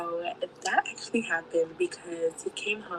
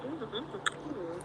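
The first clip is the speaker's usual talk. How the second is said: moaning noises; 4 semitones higher, 9 dB quieter than usual. Retold or imitated. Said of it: "all those kind of noises".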